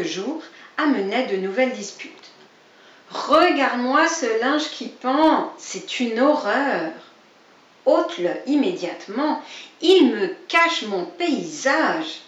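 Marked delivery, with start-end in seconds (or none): 3.1-12.2 a lightly voiced cranky old rabbit; grumpy neighbour nagging about the washing; grumpy complaint.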